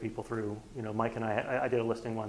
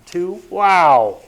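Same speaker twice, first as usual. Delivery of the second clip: high and loud, delighted; wow, two of them; excited; 5 semitones higher, 17 dB louder than usual. Real, not acted. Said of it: "that's a home run".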